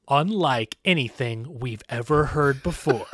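slow, drawn-out quoting; mock-solemn quote. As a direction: read the hype out slowly, with weight. Reading out producer's hyped-up quote.

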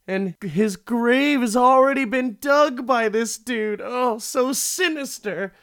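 campy spooky narration; mock sinister narrator. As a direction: play up the creepy reveal. Dramatic recap of a grave reveal.

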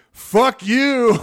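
loud, high mock "fuck you"; pretend road rage. Imagining yelling at the skateboarder from the truck, a mock angry shout. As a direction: bark it at an imagined driver, hammed up. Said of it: "do anything like".

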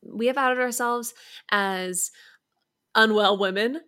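hushed, unvoiced confession of being unwell; mock confessional whisper. Shown as a demonstration. Host whispers a fake confession to the listeners, whispering. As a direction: whisper it like a shameful secret. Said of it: "We have outed ourselves as cynical".

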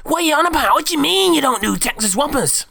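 high, loud outraged bloke; angry bloke. Retold or imitated. Bloke in the queue shouting at the worker, high loud outrage. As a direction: squeal it out like a furious bloke in the queue. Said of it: "this guy's going a bit mental".

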